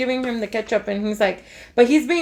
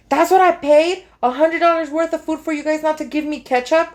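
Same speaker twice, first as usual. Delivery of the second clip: mock indignant complaint, starting higher; imitating an angry customer telling off staff; retold outrage, pushed at the start; mad customer; 4 semitones higher than usual. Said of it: "he's mad".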